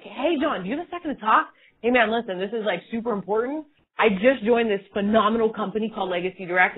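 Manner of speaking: eager, energetic pitch; excited. Shown as a demonstration. Recruiter showing an excited sales call, eager. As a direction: gush about it like you can't hold it in. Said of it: "you need to be on the call and be like".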